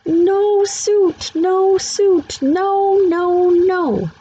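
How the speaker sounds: put-on high, loud toddler tantrum scream. A narrator's reading. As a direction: wail it like a furious little kid. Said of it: "he screamed his head off about it".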